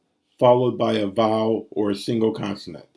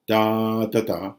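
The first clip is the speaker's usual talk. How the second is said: one long beat then two short ones; dactyl rhythm. Shown as a demonstration. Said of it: "one long followed by two shorts".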